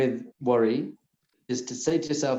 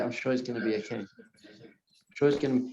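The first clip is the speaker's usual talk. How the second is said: calm self-reassurance. Shown as a demonstration. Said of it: "just be like".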